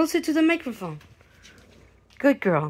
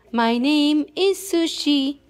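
each word spaced out slowly; slow model line; 2 semitones higher, slower than usual. Shown as a demonstration. Teaching the dog its name, slowly.

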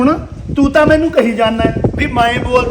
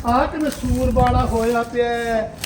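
disgusted; 8 dB quieter, slower than usual. Acted. Mother-in-law disgusted by mess.

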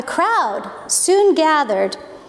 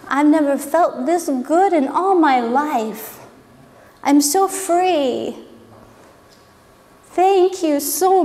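grateful healed man; slower than usual. Retold or imitated. Healed man thanking Jesus, slow and sincere. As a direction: speak gently, full of wonder. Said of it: "He was probably saying".

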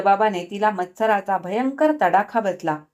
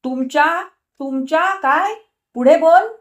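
challenging; 7 semitones higher, 3 dB louder than usual. A narrator's reading. Husband challenges wife angrily.

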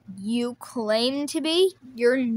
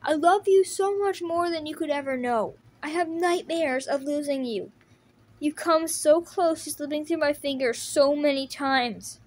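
a touch of tears, higher and pleading; brother's emotional confession, mildly tearful; tearful plea; 4 semitones higher than usual. Acted. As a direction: beg your brother to stay. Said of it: "he's crying because of me?".

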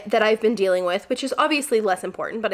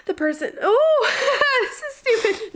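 teary laugh breaking through, much higher; emotional laughing; 13 semitones higher, 4 dB louder, slower than usual. Real, not acted. Vlogger tells viewers a moving quote and chokes up laughing. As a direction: laugh through tears, slowly. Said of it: "I'm gonna get emotional about this".

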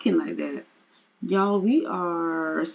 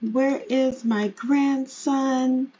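higher-pitched, lightly voiced grandma; visiting mother; 6 semitones higher than usual. Mother greeting her son on a visit, lightly acted higher voice. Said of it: "She's like".

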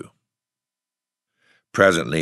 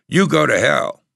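much higher, louder fierce retort; 12 semitones higher, 8 dB louder than usual. A narrator's reading. Boy refuses tramp's coat, fierce and loud. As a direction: bite back fiercely. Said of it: "the boy said fiercely".

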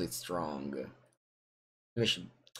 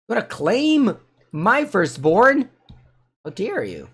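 mock outrage; 11 semitones higher, 6 dB louder than usual. Mock outrage at opponent's move.

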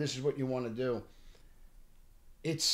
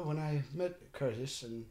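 put-on British accent; 3 dB quieter than usual. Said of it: "he starts talking with this accent".

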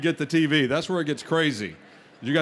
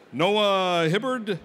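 slow unsure reading; slower than usual. Real, not acted. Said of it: "I'm not sure".

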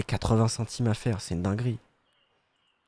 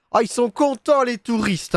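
mock delight; 11 semitones higher, 4 dB louder than usual. Mock delight at game customers.

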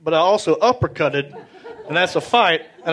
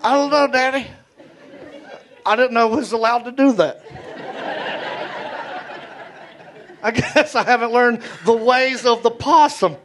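put-on meek child; 4 semitones higher than usual. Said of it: "It's like".

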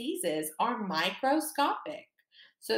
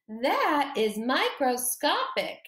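That is microscopic in a small, higher, slower voice; 4 semitones higher, 4 dB louder than usual. Shown as a demonstration. Teacher showing the class the game's little voice: small and high. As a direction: make yourself tiny: a little voice for That is microscopic. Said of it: "say it in your microscopic voice".

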